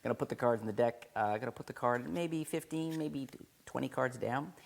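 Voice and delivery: put-on a light take on a British accent while explaining the cut; Derek Dingle British accent. Teacher imitates Derek Dingle placing the card in a light British accent. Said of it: "Derek Dingle".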